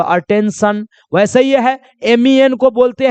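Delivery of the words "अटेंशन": slow pronunciation demo. Shown as a demonstration. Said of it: "तो सन लगा दो यहाँ पर".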